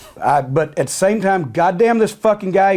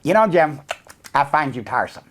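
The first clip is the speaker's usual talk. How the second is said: Kevin Dunn voice; 5 semitones lower than usual. Retold or imitated. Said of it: "And Kevin Dunn goes".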